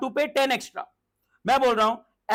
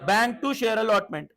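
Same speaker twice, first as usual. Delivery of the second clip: very slow, each word set apart; slow dictation; much slower than usual. Shown as a demonstration. Teacher dictating the allotment entry, very slow. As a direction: lay out the entry slowly. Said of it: "कितना due करा मैंने मंगाया?".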